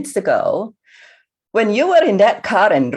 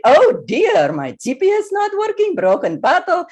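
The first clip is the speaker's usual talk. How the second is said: panicked fluster; 9 semitones higher than usual. Acted. Lost in a scary neighborhood.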